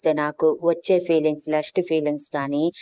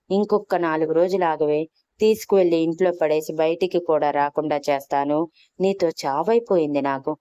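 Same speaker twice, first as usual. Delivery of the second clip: exasperated shout. Acted. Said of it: "అరుస్తూ ఉంటే".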